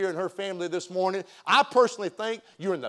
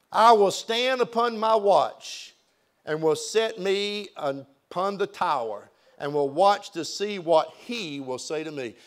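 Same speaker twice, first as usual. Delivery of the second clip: slow, measured Bible reading; scripture reading. Acted. Pastor reading scripture aloud, slow and measured. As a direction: read the verse slowly to the congregation, measured. Pastor reads verses from Habakkuk.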